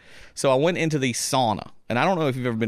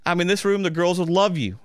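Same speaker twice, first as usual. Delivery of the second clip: high coaxing invite; 5 semitones higher than usual. Retold or imitated. Stranger's invitation.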